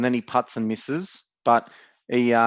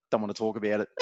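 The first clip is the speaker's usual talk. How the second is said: sulky mumble; 6 dB quieter, faster than usual. Retold or imitated. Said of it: "Corey's a bit quiet and off to the side".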